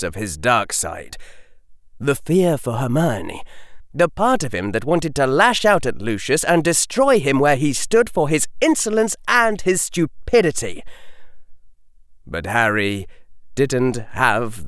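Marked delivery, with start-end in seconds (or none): none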